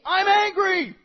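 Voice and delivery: loud, high, punched-out declaration; emphatic admission. Shown as a demonstration. Pastor telling congregation to call anger anger, loud and emphatic. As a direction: belt it out as a confession. Models bluntly admitting anger.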